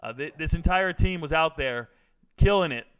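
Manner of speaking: ordinary delivery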